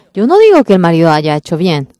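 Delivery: loud insistence. Real, not acted. Preacher stresses his disclaimer.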